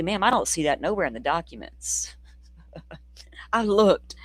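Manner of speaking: sly whispered aside; mock whisper. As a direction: lean in and whisper it dryly. Whispered aside replying to her.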